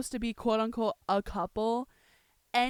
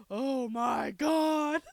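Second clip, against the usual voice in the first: slow, drawn-out mock groan; a hint of mock weariness; lightly mimicked exasperation; much slower than usual. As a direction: groan it as a fed-up character. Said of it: "he's like".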